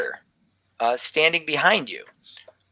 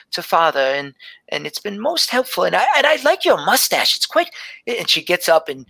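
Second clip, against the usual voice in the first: put-on much higher, delighted child voice; curious little girl; 4 semitones higher than usual. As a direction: gush with wonder over the mustache. Gelby pokes at mustache.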